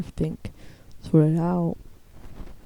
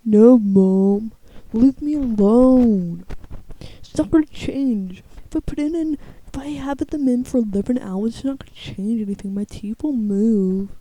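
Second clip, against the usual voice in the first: put-on annoyed teen; 4 semitones higher, 4 dB louder than usual. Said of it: "Every night she's like".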